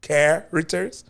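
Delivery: "Characters" with a rising, questioning end; questioning tune. Real, not acted. Host checks a name with his guest, questioning "Characters?". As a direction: say "Characters?" slowly, unsure it is right. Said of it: "make sure I'm saying it".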